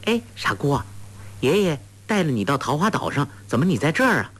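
a hint of a sweet coaxing young girl; lightly voiced clever girl. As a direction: lift the voice a little to coax a simple girl. Huang Rong coaxing Sha Gu.

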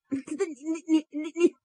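stuck repeating the first word; stuttering. Acted. Son stammers after his opera opening. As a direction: stammer over and over on the same sound. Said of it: "后边照样结巴".

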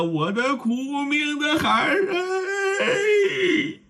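high, wailing cry rising on the last 哎; a mother's keening, voice breaking; sobbing lament. Acted. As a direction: weep the words over her child. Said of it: "老王妃已然泣不成声了".

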